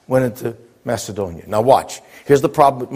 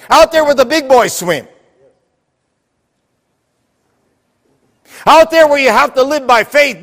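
loud-pitched preacher's call, voice lifted high; rousing preaching; 8 semitones higher, 3 dB louder than usual. Real, not acted. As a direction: drive it home to a congregation. Preaches at full force.

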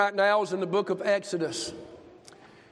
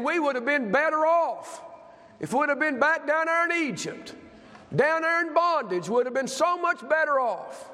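higher-pitched mock complaint of the people; complaining; 6 semitones higher than usual. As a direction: imitate a crowd griping to their leader. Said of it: "They start complaining".

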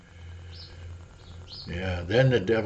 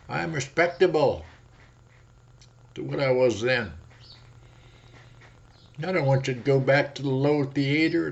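the devil's coaxing cry; 5 semitones higher than usual. Acted. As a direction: sell the devil's charm. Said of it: "he cries out".

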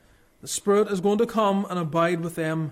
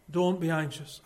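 "Don't be anxious" said low and soft, weight on "Don't"; a quiet lower echo, pressing "Don't"; soft low repeat; 3 semitones lower, 5 dB quieter than usual. Shown as a demonstration. Pastor softly repeating to his flock, low and soft.

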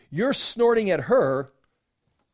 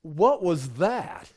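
slow, mock-indignant disbelief; imitating the scoffing disciples; acted scornful snort; slower than usual. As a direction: draw it out as if appalled. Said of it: "they snorted".

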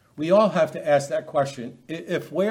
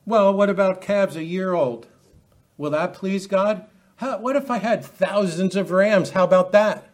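mock offer pitched high, building louder to the end; ludicrous, hypocritical bargaining; 4 semitones higher, 3 dB louder than usual. Preacher voicing the people bargaining with God, mock-sarcastic. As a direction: haggle with escalating, hammed-up offers. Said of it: "You see how ludicrous it's getting".

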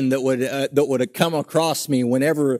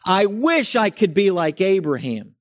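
higher, gushing imitation of a wistful believer; mock admiring churchgoer; 5 semitones higher than usual. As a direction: lightly play someone envying Abraham. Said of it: "we just think".

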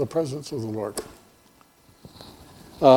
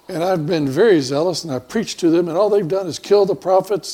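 pleading Elijah; 3 semitones higher, 5 dB louder than usual. Acted. Elijah complains to God.

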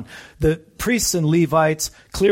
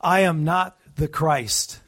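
slow, deliberate denial, each word weighted; emphatic; 2 semitones higher, slower than usual. Retold or imitated. Preacher voicing John the Baptist denying he is the Christ, slow and emphatic. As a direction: lay it down firmly, word by word. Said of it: "He emphatically says".

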